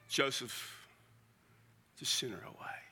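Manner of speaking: dropping to a hush on the last words; quiet and secret. Shown as a demonstration. Preacher telling the congregation how Joseph sent Mary away, hushed. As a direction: let it sink to a whisper, secretive. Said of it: "It said very quietly, very secretly".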